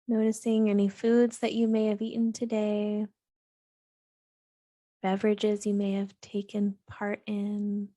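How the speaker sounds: calm, even meditation voice with long pauses; unhurried, steady grounding-practice delivery; guided meditation. Real, not acted. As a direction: gently guide listeners into grounding, leaving space between phrases.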